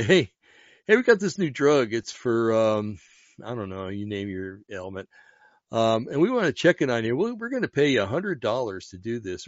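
a pushy pitch to hungry people; mock drug rep pitch. Mock drug company pitch to starving.

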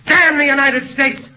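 defiant shout at the court; bitter, defiant outcry; angry outburst. Acted. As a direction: fling the curse at the judge. Nolan curses his country in court.

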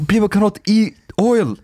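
high-pitched, exasperated retold protest; mock-outraged disbelief, breaking into laughter; upset. Retelling objections to friends about eating oil, upset and incredulous. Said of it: "well, then I was pretty upset".

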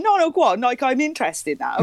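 lightly voiced curious doorman; eager doorman. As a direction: press her to go on. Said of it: "He went".

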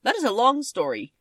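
a hint of a royal monkey beginning a tale; Monkey King voice. Monkey King answers Dorothy, lightly voiced.

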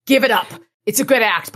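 defiant challenge; tag only. Acted. Elaine confronting supposed fake Dresden.

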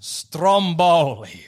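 very slow, stretched STROMBOLI; drawn-out announcement. Real, not acted. Presenting the name, then repeating it.

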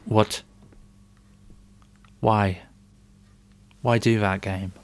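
loud shocked outcry; startled shout. Real, not acted. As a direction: yell it out in shock. Jump scare in horror game.

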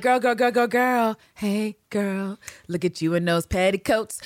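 a light sing-song flirty call; mock flirt. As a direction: tease like a charming flirt.

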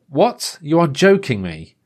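high incredulous outburst; can't believe it, again spoiled; exasperated disbelief. Retold or imitated.

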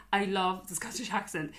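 mild emphasis on "I love the Scottish accent"; emphatic declaration. Real, not acted. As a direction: declare it firmly for the record. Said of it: "emphasize it again".

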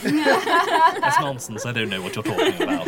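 high librarian voice cracking into laughter; laughing through the librarian voice. Acted. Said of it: "this is the librarian's voice".

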